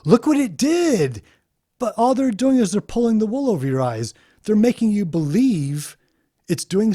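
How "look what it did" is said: mocking, rising up high on the last line; mock boast. Mocking programmers bragging to the public about their AI. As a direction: show off like a proud programmer. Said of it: "Then they can say".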